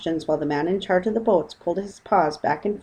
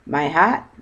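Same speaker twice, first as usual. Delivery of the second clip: exclaim; 5 dB louder than usual. Acted. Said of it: "he exclaimed".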